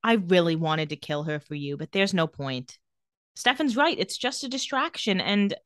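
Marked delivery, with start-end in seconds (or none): 0.0-2.8 lower, understated defeat; sighing resignation. Retold or imitated. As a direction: let it sink, as if giving up. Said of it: "She sits by the grave and sighs".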